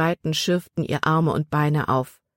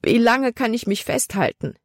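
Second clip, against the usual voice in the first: desperate; 6 semitones higher than usual. A narrator's reading. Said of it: "fragte sich Libby verzweifelt".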